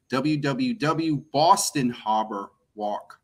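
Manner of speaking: slow, slipping into a Boston accent. Real, not acted. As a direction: let the Boston accent come out on Harbor. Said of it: "my Boston accent is coming out".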